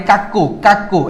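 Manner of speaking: "কাক্কু" with hard k sounds. Shown as a demonstration. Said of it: "সি কখনো কে এর মতো উচ্চারণ হয়".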